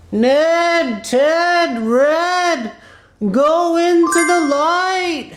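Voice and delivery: lightly voiced heavenly summons, words drawn out; slow, mock-divine beckoning; Squirrel Jesus. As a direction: call each name slowly, spaced apart, like a voice from above. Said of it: "they hear the voice of Squirrel Jesus".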